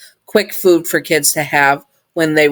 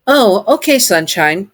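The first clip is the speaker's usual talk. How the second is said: robot voice; 5 semitones higher than usual. Acted. Sun robot voiced in story.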